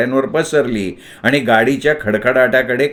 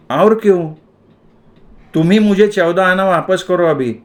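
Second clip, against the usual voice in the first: put-on boy protesting; 5 semitones higher than usual. A narrator's reading. Boy argues with shopkeeper.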